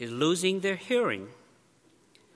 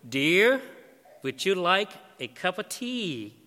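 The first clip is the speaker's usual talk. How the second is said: firm, punchy Dear, then steadier; husband repeats the offer, firmer; firm call; 3 semitones higher, 3 dB louder than usual. Retold or imitated. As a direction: say it firmly this time. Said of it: "in a firm voice".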